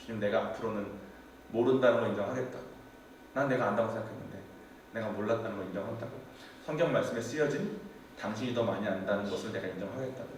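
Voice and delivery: soft, broken confession after crying; quietly giving in to God through tears; tearful surrender prayer. Retold or imitated. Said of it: "엄청 울고". (울먹이며 조용히 고백하는 기도)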